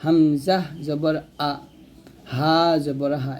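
"আ" and "হা" from bottom of throat; throat letters. Shown as a demonstration. Teacher modelling for learners, "আ", "হা" from the throat. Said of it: "হলকের শুরু থেকে উচ্চারণ".

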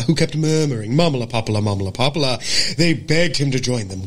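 dialect warm-up passage read aloud; acting-school diction drill in General American; crisp General American demo. Shown as a demonstration. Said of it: "General American".

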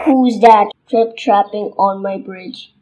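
lightly voiced gruff challenge; mild troll roar. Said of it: "he roared".

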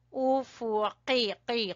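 उफुकी with a heavy "q" from the root of the tongue; thick qaf. Shown as a demonstration. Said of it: "कॉफ मोटा है बेटा". (उफुकी में की को ज़बान की जड़ से मोटे क़ाफ़ के साथ)

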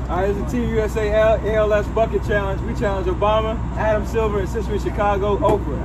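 loud. Shown as a demonstration. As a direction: belt the lines out with energy. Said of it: "How'd that go?".

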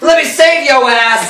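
high, hammed-up rescuer's call; mock heroic rescue. Joe bursting in to save Pip, mock heroic. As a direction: call out like an arriving hero.

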